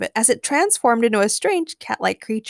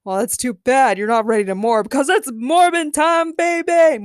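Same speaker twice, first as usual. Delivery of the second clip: shouted; 5 semitones higher, 6 dB louder than usual. A narrator's reading. Morbius declares morbin' time to Harley, shouting. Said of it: "Morbius shouted".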